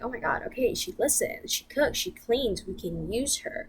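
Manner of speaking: boyfriend's mom pleased with her, imitated; mock approving mom. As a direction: gush like a pleased mother. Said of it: "maybe she'd be like".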